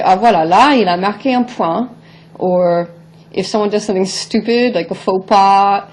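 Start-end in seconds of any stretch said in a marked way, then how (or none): 0.0-2.0 impressed remark. Retold or imitated. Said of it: "you say".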